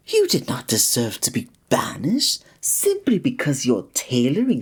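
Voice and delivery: hushed, hurt whisper; pained whisper. Real, not acted. Hearing the traveler was banished, a pained whisper. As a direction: whisper as if the news stings.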